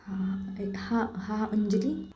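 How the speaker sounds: soft, broken whispered yes, near tears; barely holding back sobs; crying whisper. Acted. Saili answering Anjali on the phone, tearful whisper. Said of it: "रोते आवाज़ में बोलती".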